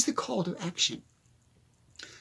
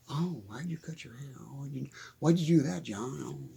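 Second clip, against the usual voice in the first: low, hushed mimicry of a critic; mock disapproving busybody; 9 semitones lower, 14 dB quieter than usual. Acquaintance questioning John's new haircut, mock disapproval. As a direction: lightly imitate a fussing acquaintance, very soft and low.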